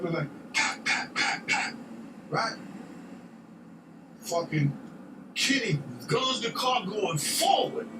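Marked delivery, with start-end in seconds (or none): 0.5-1.7 imitated gunshots. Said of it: "I do five or six guns".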